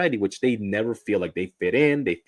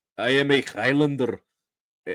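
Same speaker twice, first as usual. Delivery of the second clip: put-on Scottish accent, higher pitch; 5 semitones higher than usual. Speaker picturing Robin Williams doing the accent: Robin Williams doing Scottish accent. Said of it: "That's what you sound like".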